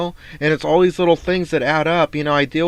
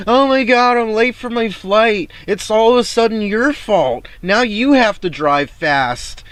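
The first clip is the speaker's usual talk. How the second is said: much higher, loud, frantic mock passenger; panicked passenger; 10 semitones higher, 6 dB louder than usual. Driver mocking late passengers in the back seat, high frantic shriek. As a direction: shriek it like a rider late for a flight.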